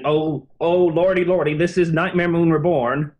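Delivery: a hint of a folksy accent, as a flustered Twilight; folksy put-on accent. Host voicing Twilight presenting the filly to Celestia, in a light put-on folksy accent. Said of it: "did it with that accent".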